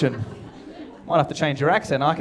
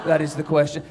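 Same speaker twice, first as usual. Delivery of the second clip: put-on slow, lightly theatrical drunk Hamlet; mock-recite like a drunk actor; drunk Shakespeare; 3 dB quieter, slower than usual. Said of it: "It's like shit-faced Shakespeare".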